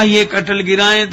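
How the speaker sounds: loud, high shout from the treetop; very loud call. Acted. Madhavdas shouts down from the tree, very loud and high. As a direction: bellow the question down from the tree. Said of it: "बड़े जोर से बोले".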